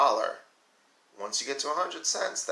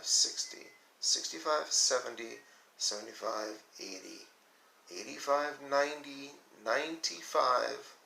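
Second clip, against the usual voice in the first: slow counting along; 2 semitones lower, slower than usual. Shown as a demonstration. Teacher counts coins aloud.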